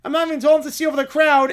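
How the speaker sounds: put-on high, loud, whiny child voice; whiny little kid. Small child complaining in the movie line, high whiny voice. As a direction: whine like a cranky four-year-old.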